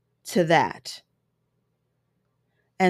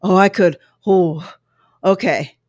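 lightly imitating Chris Rock; 4 dB louder than usual. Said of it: "that part right there".

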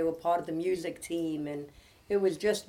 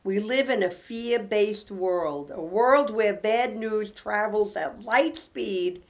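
devotional reading; 4 dB louder than usual. Acted. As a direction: read it as comfort for troubled listeners. Reads devotional aloud to close.

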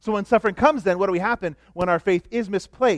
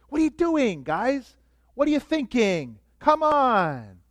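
mock irate; 5 semitones higher, slower than usual. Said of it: "Jesus could have been irate".

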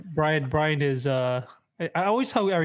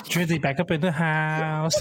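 Impression of a rapper. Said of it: "Hit us with your rapper impression".

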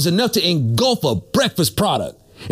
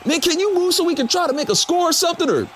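whiny player voice; 5 semitones higher than usual. Acted. Acted player dialogue.

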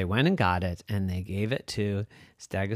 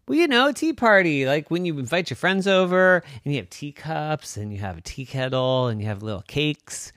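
put-on eager kid dinosaur; 5 semitones higher, 4 dB louder than usual. Kid explaining to parents.

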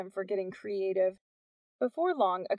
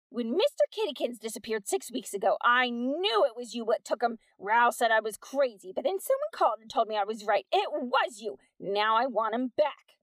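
Peg's voice; 3 semitones higher, 4 dB louder than usual. Acted. Peg confronting Missus Wack over her cat, indignant. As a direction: demand the cat back.

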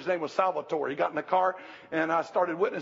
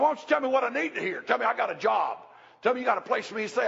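hitchhiker; 5 semitones higher, faster than usual. Retold or imitated. Hitchhiker challenges the preacher.

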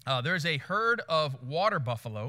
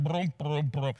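imitated trudging; 4 semitones lower, slower than usual. Imitating the bull trudging forward.

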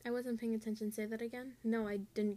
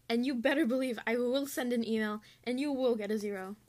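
louder, half-joking warning; playful warning to lazy group members; mock threat; 6 dB louder than usual. Real, not acted. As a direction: threaten them with a grin in the voice. Rant ending in a threat.

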